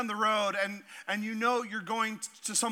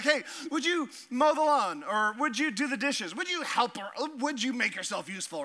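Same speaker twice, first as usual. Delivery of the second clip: mock nagging parent; 2 semitones higher than usual. Parent asking kids chores.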